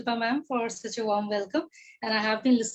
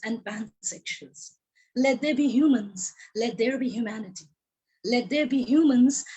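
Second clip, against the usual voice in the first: measured poetic reading with long pauses; poem recitation. Acted. A poet reciting her poem to the audience, measured and deliberate. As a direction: recite each line as a refrain.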